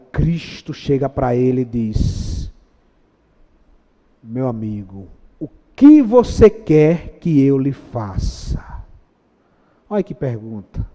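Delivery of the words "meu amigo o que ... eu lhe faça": gentle Jesus. Acted. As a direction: ask kindly and slowly. Jesus speaking to blind man.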